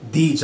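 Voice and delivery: DEEDS set apart after a pause; pause, then land on the word DEEDS; emphatic, isolated DEEDS; stress on DEEDS. Shown as a demonstration. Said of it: "I wanna put emphasis on the word deeds".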